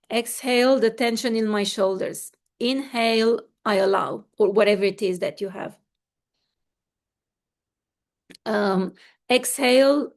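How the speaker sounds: rhythmic breath-cue voice; breathing coach leading the group; guided breathing. Acted. Leads breathing exercise.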